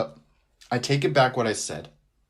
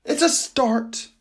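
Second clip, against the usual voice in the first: stretched-out, higher catchphrase; slow catchphrase; 11 semitones higher, much slower than usual. Acted. Podcast host slowly savoring his catchphrase. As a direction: draw out each word.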